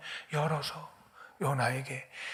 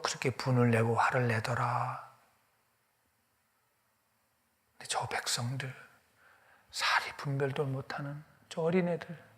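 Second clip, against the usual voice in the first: tender God. Acted. God telling Jonah gently, tender hushed voice. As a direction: speak gently like a grieving father.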